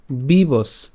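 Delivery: বিবস said alone, ending crisply on the dental স; clear pronunciation demo. Shown as a demonstration. Teacher shows where to break বিবস, ending on the dental স. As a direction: stop cleanly on the স of বিবস. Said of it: "দন্তাস্ব পর্যন্ত উচ্চারণ করব।".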